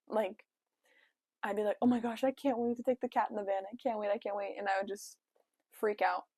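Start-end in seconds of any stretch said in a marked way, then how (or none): 1.8-4.5 fast, giddy chatter. Retold or imitated. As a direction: bubble over like a kid before a trip. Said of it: "get so giddy over nothing".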